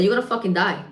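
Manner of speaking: matter-of-fact retold warning; blunt warning. Bartender warns her alcoholic cousin, blunt warning. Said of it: "I said it just like that".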